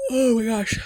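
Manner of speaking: a worn-out whispered sigh of words; tired whisper. Real, not acted. Talking to camera, tired, whispered under the breath. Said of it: "I'm so tired".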